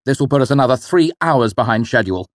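irritated rant. Acted. The father complaining to his son about the blocked King's Road, exasperated.

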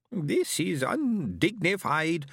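slow high alien moan; a slow put-upon alien moan. A narrator's reading. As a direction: moan it, drawn out. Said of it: "moaned Hershigan".

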